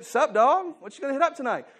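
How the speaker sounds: high, loud, laid-back street slang greeting; eighties slang. Retold or imitated. Pastor hamming up old slang to his congregation, high and loud. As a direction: toss it off like a cool kid from the early nineties. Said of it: "this is the way we".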